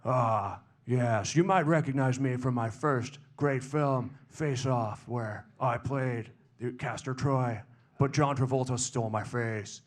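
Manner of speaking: deliberate, halting actorly storytelling; Nicolas Cage. Acted. Film star recalling Face Off, measured impression. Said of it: "Nicolas Cage".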